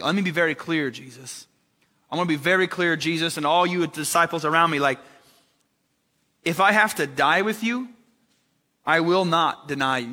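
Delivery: fired-up Peter swearing loyalty, rising on die; vehement vow. Retold or imitated. Preacher acts out Peter vowing to Jesus, vehement. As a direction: insist hard, like a man swearing an oath. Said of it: "How vehement that was?".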